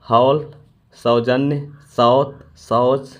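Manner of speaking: हौल said with a vowel between o and au, drawn out; careful demo of the औ sound. Shown as a demonstration. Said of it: "ओ और औ के बीच का होता है".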